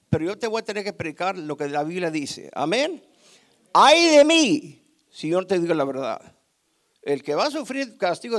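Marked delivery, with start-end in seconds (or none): 3.7-4.8 slow, loud, high wail; loud cry of woe. Real, not acted. Preacher crying out his own woe. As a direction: cry it out like a lament.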